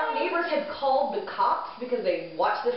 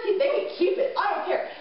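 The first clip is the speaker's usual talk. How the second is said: gleeful dismissal; 6 semitones higher than usual. Retold or imitated. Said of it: "he was like".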